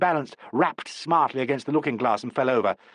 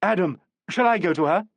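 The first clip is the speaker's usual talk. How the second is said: higher, louder call down the passage; 6 semitones higher, 4 dB louder than usual. A narrator's reading. Helena calls out to Adam in the passage, raised voice. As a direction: call out to him down the hall. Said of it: "Helena Hamilton called out".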